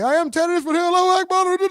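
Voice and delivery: hammed-up radical yelling; mock yell. Streamer mimicking the fighter's outburst, mock yell. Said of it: "he yelling and said".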